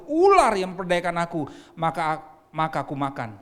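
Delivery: loud, ringing Bible reading; scripture reading. Acted. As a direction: proclaim the verses to the church. Reads Genesis passage aloud.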